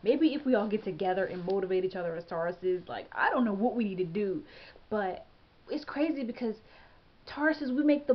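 real mild exasperation; frustrated. Real, not acted. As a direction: plead with them in frustration. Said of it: "it kinda frustrates me".

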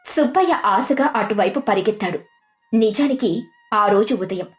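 plain reading voice

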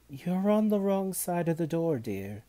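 high, loud, bustling cook; scolding cook. A narrator's reading.

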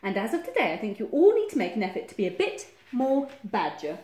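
loud, lightly voiced bossy badger; emphatic storybook boss. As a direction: lay down the rules loudly. Badger orders the other animals.

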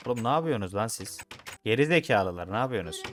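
angry yell. Real, not acted. Yelling at game villagers.

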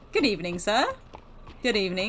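lightly put-on posh greeting. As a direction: greet passers-by with a hint of poshness. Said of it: "let me do my posh voice".

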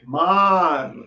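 "Hmar" with a tight, closed R. Shown as a demonstration. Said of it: "Tem que fechar o R". ("Hmar" com o R fechado)

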